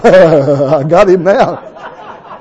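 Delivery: slow, laughing voice of God; drawn-out, amused God; lightly voiced God chuckling; God's voice. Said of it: "God goes".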